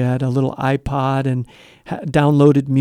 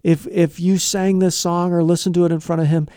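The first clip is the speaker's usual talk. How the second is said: accusing parent; 3 semitones higher than usual. Retold or imitated. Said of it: "I came at her all guns blazing".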